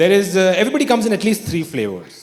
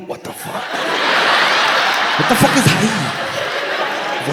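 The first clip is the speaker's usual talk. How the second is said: mock inner panic; much slower than usual. Inner panic after awkward hi.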